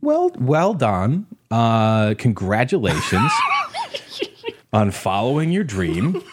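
sarcastic praise through laughter; laughing mock congratulations. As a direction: fake cheer, cracking up. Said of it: "or us going".

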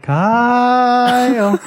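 high, long held name; imitated pestering little sister; sister's nagging call. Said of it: "it was always something like this".

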